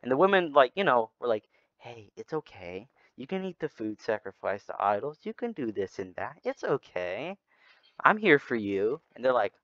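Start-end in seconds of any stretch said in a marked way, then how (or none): 1.8-9.0 a soft, hushed, coaxing temptress voice; seductive coaxing. Retold or imitated. Moabite women coaxing the Israelite men to sin, soft and seductive. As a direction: lure him in gently, almost a murmur.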